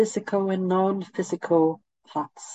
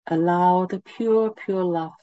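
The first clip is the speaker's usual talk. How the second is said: guided meditation. Acted. Leads a meditation.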